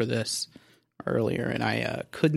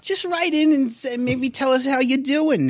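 Jewish guy voice; 13 semitones higher, 4 dB louder than usual. Acted. Mock-caring to listeners.

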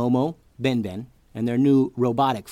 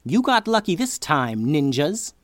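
angry villain; 4 semitones higher, 4 dB louder than usual. Acted. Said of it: "an angry look on his face".

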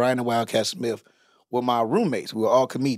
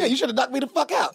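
laughing shout; 10 semitones higher, faster than usual. Real, not acted. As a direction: laugh it out at the top of your voice. Laughing at roommate's fight advice.

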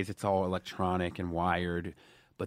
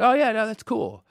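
imitating his friends; 12 semitones higher, 7 dB louder than usual. Friends agreeing to postpone party.

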